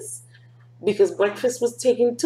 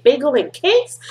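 excited exclamation; 6 semitones higher, 6 dB louder than usual. Acted.

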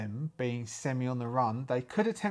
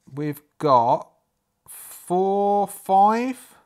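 loud counting; 6 semitones higher, 10 dB louder, much slower than usual. Real, not acted. Counting food aloud.

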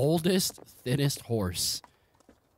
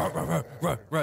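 dog growl; 2 semitones higher, faster than usual. Acted. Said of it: "You hear him go".

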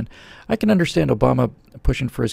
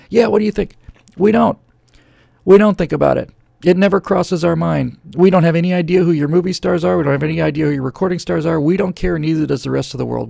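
raised, loud, scornful comeback to the foreigners; mock retort; 5 semitones higher, 5 dB louder than usual. Host mocking Europeans who sneer at America, loud scornful retort. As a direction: fling it back at them loud and dismissive. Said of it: "is to say".

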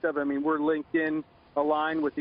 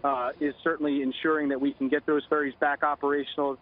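phone line; 6 semitones lower than usual. Real, not acted. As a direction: voice over a telephone line. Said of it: "Joining us now on the phone".

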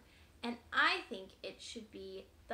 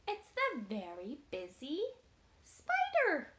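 excited reveal; 3 semitones higher, 5 dB louder than usual. Real, not acted. Gasped reveal of favorite book.

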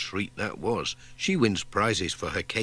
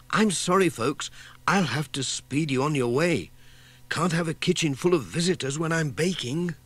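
higher, hurried mock-fluster; bustling apology; 6 semitones higher than usual. Missus Pottage hurries visitors out before baking, higher bustling voice. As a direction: shoo them out kindly, busy.

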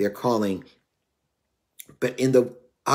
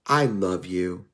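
tender; 4 semitones lower, 3 dB quieter, slower than usual. Retold or imitated. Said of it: "I was like".

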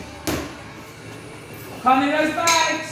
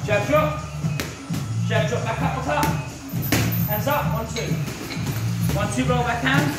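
sharp barked pad-work calls; boxing coach calling combos. Real, not acted.

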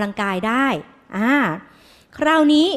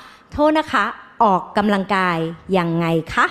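polite doctor; 4 semitones lower than usual. Retold or imitated. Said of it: "จริงๆ หมอจะถามว่า".

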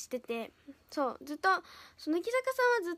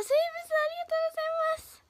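flustered thanks; 12 semitones higher, much faster than usual. Real, not acted. Embarrassed thanks to commenter.

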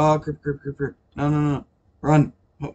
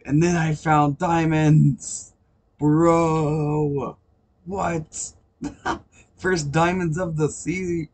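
excited; 2 semitones higher, much slower than usual. Real, not acted. Finds first diamonds.

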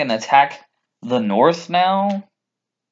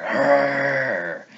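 mock enraged growl; 4 dB quieter than usual. Fan imitating her when the bells rung, mock growl. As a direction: imitate someone snapping into a rage.

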